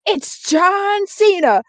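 high, slow goofy voice; character voice. Acted. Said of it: "He goes".

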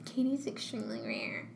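whispered playful joke; teasing whisper. Real, not acted. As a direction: slip in a whispered tease. Teasing friend.

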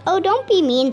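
squealing wolf. Acted. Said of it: "squealed Big Bad".

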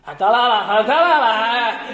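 drawn-out mock answering call; imitated call back. Coworker answering the guard from inside, imitated call back. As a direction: stretch the last word like a distant reply.

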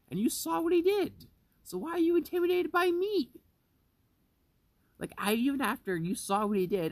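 loud, high-pitched outraged rant; raising the voice at the boss in full indignation; angry rant. Real, not acted. Ranting at the boss who was scared of him, loud and high.

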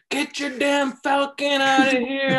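high, slow scolding. Retold or imitated. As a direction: boss them around about the bird. Mock scolding about falcon at home.

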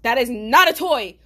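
high, loud exasperated scolding; alarmed scolding. Retold or imitated. Caller tells friend on probation off about a gun, alarmed. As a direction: scold him in a high-pitched outburst.

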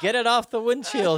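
high, laughing mock panic; comic high character voice; Rocket impression. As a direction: squeal the order through a laugh. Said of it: "I love Rocket's response, which is".

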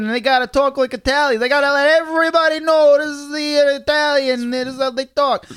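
loud, high hammed-up Italian-American accent; exaggerated Italian-American caricature, pushed high and loud; put-on Italian-American accent. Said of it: "put on this fucking accent".

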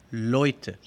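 "Leute" with eu said as "oi"; German diphthong. Shown as a demonstration. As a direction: say "Leute" like "LOY-te". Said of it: "El segundo diptongo es hoy". («Leute» pronunciado «lói-te», a la alemana)

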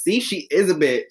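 high, loud, laughing. Real, not acted. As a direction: say it while cracking up. Laughing at friend's story.

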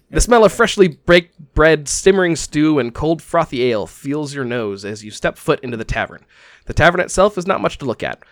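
measured scene-setting with emphatic phrase openings; storyteller painting a scene for the players; game master's narration. Acted. Game master opens the campaign in a tavern, storyteller narration.

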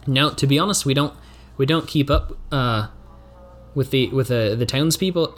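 put-on a slipping, barely held Kiwi accent; fading Kiwi accent. Local admitting they ignore the town, in a fading Kiwi accent. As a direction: let the Kiwi accent drift back toward your own voice. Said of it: "this Kiwi accent".

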